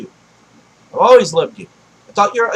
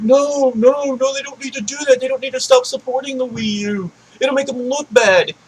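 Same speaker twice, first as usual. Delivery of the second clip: mock protesting fans; 3 semitones higher than usual. Imitating fans who defend the Wii U, mock protesting. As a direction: mimic worried fans protesting, pitched up. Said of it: "I know people are like".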